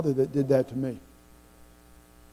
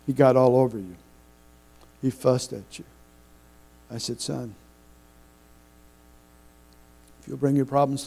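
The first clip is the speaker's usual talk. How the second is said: tender apology. Retold or imitated. Father kneels, apologizes to son.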